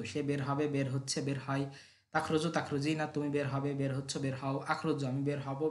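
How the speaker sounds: rhythmic drill chant of verb forms; rote recitation. Acted. Teacher reciting verb forms to students, rhythmic drill chant. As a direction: chant each form so the class can memorise it. Recites each verb's conjugation twice.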